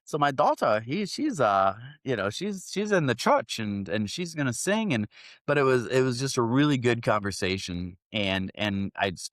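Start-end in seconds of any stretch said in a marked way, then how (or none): 0.0-4.9 high, mock Asian-accented chatter; stereotypical Asian accent. Asian driver proudly mentioning his daughter's singing, mock Asian accent. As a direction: mimic a friendly driver in exaggerated Asian English. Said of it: "kinda stereotypical Asian".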